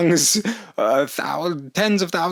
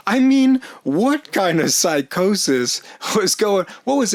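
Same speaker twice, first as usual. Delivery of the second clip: exasperated outburst; 5 semitones higher than usual. Real, not acted. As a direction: blurt it out in disbelief. Disbelief at own driving.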